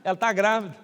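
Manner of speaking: normal talking voice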